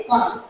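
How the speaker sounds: फार्म said "faam", no r; low, falling "faam" for फार्म; silent r. Shown as a demonstration. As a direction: drop the r in फार्म, long aa, falling. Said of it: "आर जो है silent".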